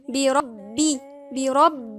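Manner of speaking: careful teaching demo, holding the doubled ب of برب; doubled-letter demo. Shown as a demonstration. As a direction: lean on the doubled ب in بربي. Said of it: "فإحنا بنقولها إزاي؟".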